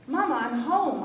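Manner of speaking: calling out loud from the door. A narrator's reading. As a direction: call home across the house. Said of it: "I called".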